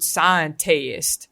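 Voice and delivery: "scientist" stretched out as sci-en-TAY-ist; mocked mispronunciation. Mocking an actor's Southern attempt, "scientist" as sci-en-tay-ist. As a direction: draw out "scientist" with a long TAY before -ist. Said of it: "That's not what we say".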